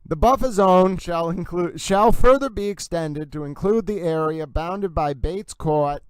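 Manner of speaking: deliberate Massachusetts accent on the street names. Shown as a demonstration. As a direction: read the order out with a Massachusetts accent. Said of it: "that was a pretty good, um, reading".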